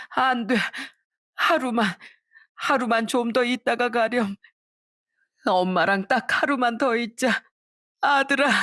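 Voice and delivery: a mother's high, desperate plea; pleading mother. Acted. Mother begging dying son. (떠나는 아들에게 애원하는 어머니의 높은 목소리)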